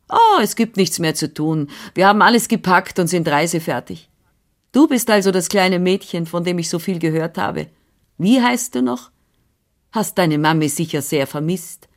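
a lightly voiced bustling older woman; brisk, busy housekeeper voice, only lightly put on; Frau Anna, brisk nurse. Nurse answering the father, lightly voiced and brisk.

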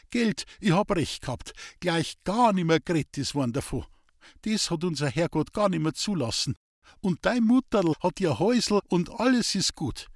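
a hint of a frail old Bavarian farmer; old farmer Hans-Peter. Old man in bed talking to Elisabeth, lightly voiced.

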